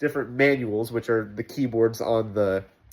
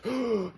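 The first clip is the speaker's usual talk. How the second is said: mock gasp; 10 semitones higher, 7 dB quieter than usual. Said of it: "I'm out of breath".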